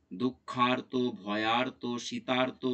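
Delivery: দুঃখার্ত, ভয়ার্ত, শীতার্ত word by word with a clear "aar"; "aar" sound shown. Shown as a demonstration. Teacher listing the exceptions for students, "aar" sound shown. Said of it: "এই শব্দগুলো সবই আর".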